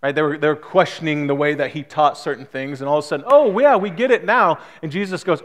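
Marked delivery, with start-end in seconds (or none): 3.3-4.6 higher, lilting mock agreement; sing-song show of suddenly getting it; overconfident disciples. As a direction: lightly mimic eager know-it-all followers. Voices disciples suddenly claiming to understand.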